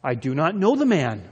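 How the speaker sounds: mildly emphatic oath of denial; sworn denial. Acted. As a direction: deny it firmly, as if under oath. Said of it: "denied it with an oath".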